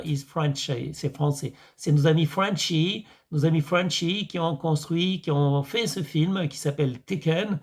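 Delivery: lightly put-on American accent; French with a hint of American accent. Shown as a demonstration. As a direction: speak French like an American, mildly. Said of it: "je prends mon accent américain".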